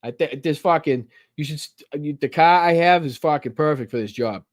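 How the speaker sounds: hammed-up Boston accent. Imagined job interview done in his Boston accent. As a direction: pitch yourself in broad Boston slang and vowels. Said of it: "the job interview like".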